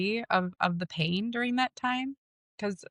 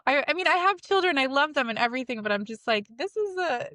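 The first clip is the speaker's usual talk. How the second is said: laughing; 5 semitones higher than usual. Real, not acted. Laughing, high-pitched retelling.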